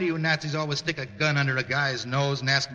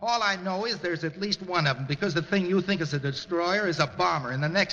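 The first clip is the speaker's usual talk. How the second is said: defiant raised voice; shouting back; 4 semitones higher than usual. Acted. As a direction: shout back at him over the bombs. Sailor shouts back over bombing.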